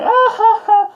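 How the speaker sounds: imitated laugh. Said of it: "she's like".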